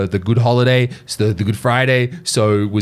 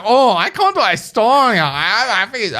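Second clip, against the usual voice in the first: put-on much higher, lightly accented Asian-accented English; a brief, half-hearted Asian-accented English impression; mock Asian-accented English; 9 semitones higher than usual. Retelling the cafe stranger's answer, mock Asian-accented English. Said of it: "he was like".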